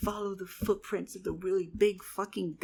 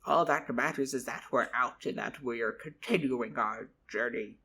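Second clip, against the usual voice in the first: lower, calm soothing voice; reassuring mentor; 3 semitones lower than usual. Acted. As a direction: settle him down like a wise mentor. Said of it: "he patted my back and he went".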